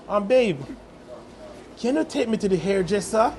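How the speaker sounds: lightly imitated English girlfriend accent; a hint of an Englishwoman's accent. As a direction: ask sweetly in a mild mock English accent. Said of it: "And the accent change".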